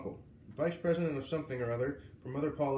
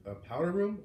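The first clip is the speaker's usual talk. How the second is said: puzzled question, pitched up; quizzical; 5 semitones higher, 4 dB louder than usual. Acted. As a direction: ask it puzzled. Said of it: "repeated quizzically".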